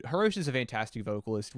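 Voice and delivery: usual speaking voice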